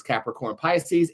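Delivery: ordinary talk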